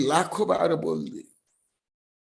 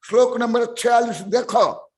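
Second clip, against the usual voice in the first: preaching shout; 3 semitones higher, 4 dB louder than usual. Real, not acted. Preacher commanding the audience.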